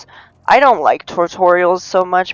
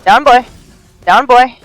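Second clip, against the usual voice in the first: mock scolding; 3 semitones higher, 6 dB louder, much slower than usual. Scolding an attacker in game.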